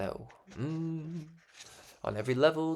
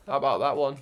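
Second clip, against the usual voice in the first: ordinary delivery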